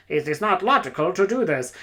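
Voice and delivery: lightly voiced logical cyborg; hint of a stiff machine priest; machine-worshipping priest. Machine priest objecting to the orcs, lightly mocked cyborg voice. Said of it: "worship machines and are, like, a super".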